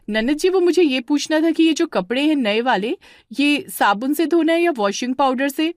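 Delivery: a hint of a fussy caller; sister-in-law phoning with a question.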